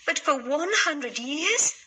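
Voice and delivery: grieving for her daughter; understated sadness; sad queen. Acted. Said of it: "said the Queen sadly".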